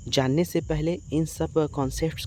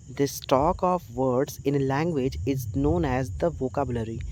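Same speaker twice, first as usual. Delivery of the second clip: slow, deliberate definition read; slow dictation; much slower than usual. Shown as a demonstration. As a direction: read it out slowly for students to copy. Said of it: "reads English definition slowly".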